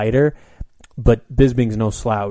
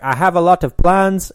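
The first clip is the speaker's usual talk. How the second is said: quoting George; 8 semitones higher, 8 dB louder than usual. Retold or imitated. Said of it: "George is like".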